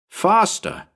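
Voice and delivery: high, urgent cry; urging. A narrator's reading. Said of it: "I urged Bill".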